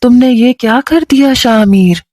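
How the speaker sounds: lightly voiced mother telling her son off; understated reproach from a mother; mild angry mother. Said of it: "मुझे गुस्से से कहने लगी".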